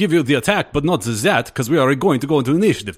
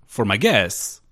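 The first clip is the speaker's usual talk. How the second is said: put-on Transylvanian accent. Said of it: "Your accent's quite thick".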